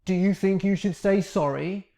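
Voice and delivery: "sorry" pushed up with a challenging rising tune; aggressive rising sorry. Shown as a demonstration. Teacher showing the aggressive version to avoid. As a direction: make "sorry" sound like an accusation. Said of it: "I'm not saying".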